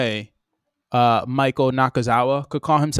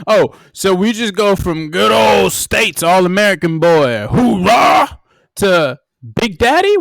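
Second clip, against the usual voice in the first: mock outrage; 5 semitones higher, slower than usual. Real, not acted. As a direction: act scandalized.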